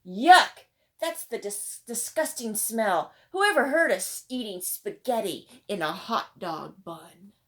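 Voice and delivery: a kid hollering in mock disgust; hollering boy. A narrator's reading. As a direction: yell it across the lunch table, grossed out. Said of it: "Ralph hollered".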